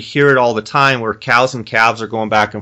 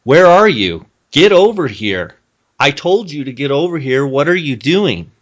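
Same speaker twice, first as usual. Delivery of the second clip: a mother cow scolding a calf that won't come; demanding cow; 4 semitones higher than usual. Retold or imitated. Mother cow calling her calf, demanding and insistent. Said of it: "it would be like".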